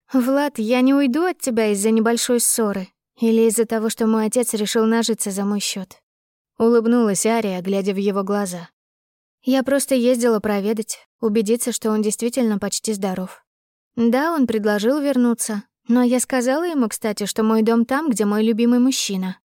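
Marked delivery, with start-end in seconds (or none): 0.1-6.0 slightly raised, reassuring heroine's voice; a hint of the devoted young woman; lightly voiced heroine. Heroine assures her lover she will stay, lightly voiced devotion. 9.4-19.4 slightly lifted, earnest heroine's voice; a hint of the devoted young woman; lightly voiced heroine. Heroine tells her lover where home is, lightly voiced devotion.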